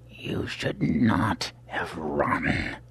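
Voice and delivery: slow, cold, measured menace; cold assassin. Acted. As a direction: scold the prey slowly. Albino attacker voice.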